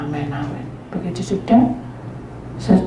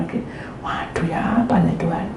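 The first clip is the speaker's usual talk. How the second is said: whisper; 7 dB quieter than usual. Real, not acted. Private plea to God.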